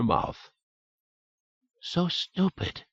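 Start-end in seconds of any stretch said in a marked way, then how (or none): 1.8-2.8 dully. A narrator's reading. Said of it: "she said dully".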